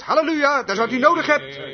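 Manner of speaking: high, excited retold exclamation; crying out. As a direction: call it out in joyful discovery. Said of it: "riep hij uit". (enthousiast uitroepen)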